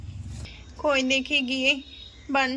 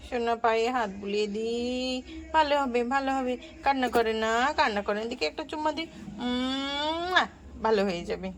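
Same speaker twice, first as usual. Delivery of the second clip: soothing. Acted. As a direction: soothe her gently while rubbing the foot. Aunt soothing crying child.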